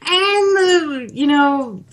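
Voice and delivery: a hint of a 1950s radio race caller; lightly voiced vintage announcer, laughing through; old-timey radio announcer. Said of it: "the old-timey radio guy voice".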